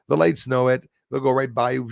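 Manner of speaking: normal talking voice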